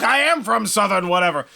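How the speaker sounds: light mock southern accent, lightly done. Alien answering the captain, in a light southern accent. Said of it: "That was a southern accent".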